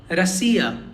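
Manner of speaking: "Rasiya" with a strong middle "si"; stress on E. Shown as a demonstration. Teacher repeating for learners, middle syllable stressed in "Rasiya". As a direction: keep the ends of "Rasiya" light, stress "si". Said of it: "E is the stressed one".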